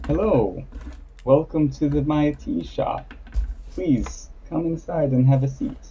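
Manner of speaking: lightly voiced host, pitched a little up; welcoming tea shop owner. Tea shop owner inviting a traveler inside, lightly voiced welcome.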